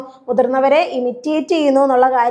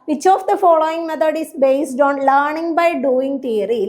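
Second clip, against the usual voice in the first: reading the question out very slowly; much slower than usual. Shown as a demonstration. Teacher reads the exam question to students, very slowly. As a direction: spell out each word of the exam question. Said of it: "reading exam question slowly".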